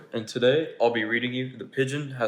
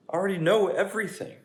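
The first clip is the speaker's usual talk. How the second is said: higher, complaining pigeon voice; a pigeon who doesn't want to go; whiny pigeon; 8 semitones higher, 5 dB louder than usual. Acted. Reader voicing the pigeon to the children, higher and whiny.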